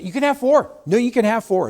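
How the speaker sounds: high, loud mock-cheerful; agent breaking it up. Agent defusing a couple's argument, high and loud. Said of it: "I say".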